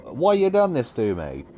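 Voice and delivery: high, loud mock cry at God; hammed-up wail of betrayal; mock outraged yell. Friend on call retelling a game moment, mock yelling. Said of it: "They should have been like".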